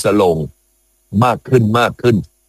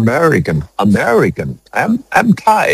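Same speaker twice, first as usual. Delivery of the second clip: mock American accent; 3 semitones higher, much slower than usual. Shown as a demonstration. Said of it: "ยกตัวอย่างหน่อย".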